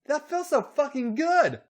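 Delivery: very high, loud yell; acted high-pitched outcry. A narrator's reading. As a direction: cry out at the top of the range. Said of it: "Charlotte yelled".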